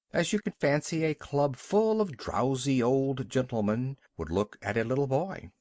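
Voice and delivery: usual speaking voice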